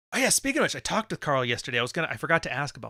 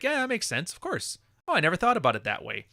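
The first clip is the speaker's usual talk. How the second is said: mock agreeable listener; 5 semitones higher than usual. People agreeing with him.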